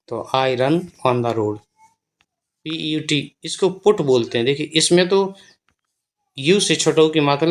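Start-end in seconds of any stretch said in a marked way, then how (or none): 0.4-1.6 I run on the road, word by word; slow model sentence. Shown as a demonstration. Teacher dictating an example sentence, very slowly. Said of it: "जैसे अगर हमें कहना है".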